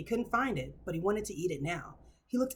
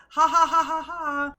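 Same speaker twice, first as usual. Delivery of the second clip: loud, high mock cackle; mocking laugh; 8 semitones higher, 10 dB louder, slower than usual. Vlogger mimicking the girlfriend laughing, mocking laugh. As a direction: imitate her laughing at him. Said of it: "you laugh at him".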